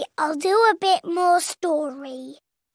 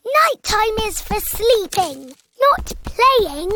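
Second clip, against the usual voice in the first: bossy big sister; 2 semitones higher than usual. Pretend. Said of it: "trying to put George back into bed".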